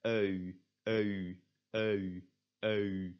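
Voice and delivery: "eu" started on an open e, gliding to u; cheat EU sound. Shown as a demonstration. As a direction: drill "eu" in evenly spaced repeats. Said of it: "kind of a cheat way to say it".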